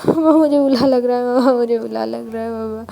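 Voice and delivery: put-on a small boy whimpering for mommy; acted toddler sob fading out; child crying. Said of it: "Ivan भी अब रोना start कर देता".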